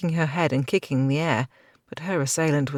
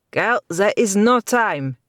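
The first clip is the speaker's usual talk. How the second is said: shouting; 6 semitones higher, 7 dB louder, slower than usual. A narrator's reading. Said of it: "he shouted".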